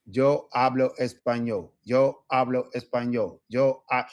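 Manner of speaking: steady practice drill. Shown as a demonstration. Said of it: "increase the speed".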